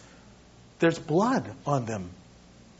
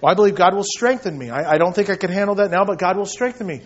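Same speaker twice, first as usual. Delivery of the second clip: glib excuse; 6 dB louder, faster than usual. Pretend. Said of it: "I hear this".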